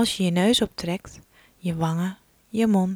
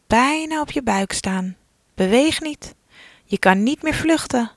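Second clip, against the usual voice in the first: urgent warning; 4 semitones higher than usual. Pretend. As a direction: warn the child not to move. Elephant approaching.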